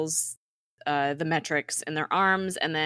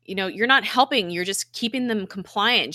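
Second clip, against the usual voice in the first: higher-pitched retold argument; arguing; 5 semitones higher, 3 dB louder than usual. Podcaster voices Daisy challenging Deke, mildly argumentative. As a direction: lightly act out an accusation. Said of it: "they're arguing because Daisy's like".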